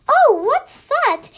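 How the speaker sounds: high, loud and slow, startled. A narrator's reading. Country Mouse hears a strange noise, startled. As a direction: jump at the strange sound.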